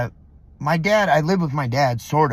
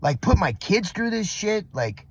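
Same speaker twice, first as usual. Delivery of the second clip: exasperated, punching the whys; pent-up frustration, half let out; angry venting. Retold or imitated. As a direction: vent in disbelief, leaning on the curses. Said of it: "I was fucking angry".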